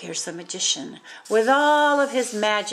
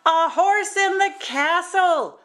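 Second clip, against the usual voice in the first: high startled shriek of a queen; mock scream at a horse indoors; 9 semitones higher, 4 dB louder than usual. A narrator's reading. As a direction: shriek it, alarmed. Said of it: "the queen screamed".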